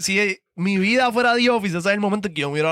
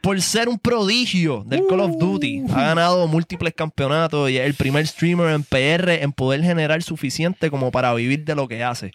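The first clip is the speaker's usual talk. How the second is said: show host intro. Acted. Host introduces King Impact to the audience, hyped.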